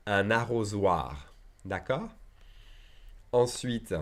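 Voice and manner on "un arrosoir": "arrosoir" said slowly and clearly; slow model word. Shown as a demonstration. Teacher repeating the new word slowly for students. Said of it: "Un arrosoir is a watering can".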